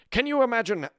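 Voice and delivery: put-on high, emphatic stab at a Finnish accent; badly faked Finnish accent, speechifying; attempted Finnish accent. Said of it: "I can't do a Finnish accent".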